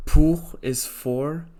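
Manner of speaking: "pour" said the French way, rolled r, slow and stressed; "pour" with a French uvular r, slow and pointed. Shown as a demonstration. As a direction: pronounce "pour" like a French speaker, drawn out. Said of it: "the word with a slight accent".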